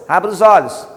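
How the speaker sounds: loud command. Shown as a demonstration. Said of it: "Algumas pessoas".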